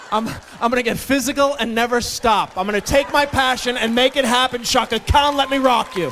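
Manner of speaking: loud, high, belting eighties hype; hyped eighties shout. Pretend. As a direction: pump it up like an eighties anthem.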